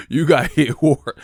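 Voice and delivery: loud, drawn-out "hard" pronounced like "hord". Shown as a demonstration. Showing the Cali way, "hard" said as "hord". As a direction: put a long O in "hard", slow and loud. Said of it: "had to put an O in that".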